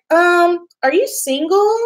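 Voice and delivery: high, hopeful question from a matchmaking mom; eager mom's question. Retold or imitated. Mother asking the receptionist if she's single, high and hopeful. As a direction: ask it like a mom sizing her up.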